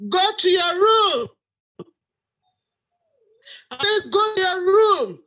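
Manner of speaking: furious mother ordering her out; shaking with anger. Acted. Mother furious at pregnant daughter.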